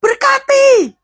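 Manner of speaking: high-pitched rallying call; exhorting cry. Real, not acted. Preacher prods idle-mouthed parents to bless, high exhorting cry.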